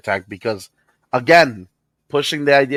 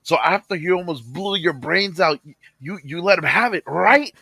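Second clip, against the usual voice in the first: each right climbing higher and louder; rising mock insistence; 8 semitones higher, 4 dB louder than usual. Boss pressing him on the dinner, rising insistence. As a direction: push the right up and up. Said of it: "And he was like".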